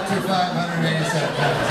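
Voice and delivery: teasing answer breaking into laughter; dry jab that cracks into a laugh; laughing reply. Retold or imitated. Comic telling his friend he's been every weight, laughing. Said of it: "And I said".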